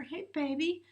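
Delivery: high, pleading plea to a distant partner. Pretend. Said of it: "you asking your partner".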